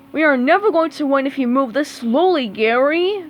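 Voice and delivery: fast, loud, exasperated scolding; annoyed cry. Acted. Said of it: "cried Squidward, annoyed".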